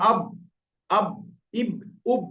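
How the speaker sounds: "আব", "ইব", "উব" each stopped with b; dry-lip ba. Shown as a demonstration. Teacher drills ba, dry-lip "আব", "ইব", "উব". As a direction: snap the outer lips shut on "আব", "ইব", "উব". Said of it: "শুকনো অংশ থেকে মিলিত হয় বা".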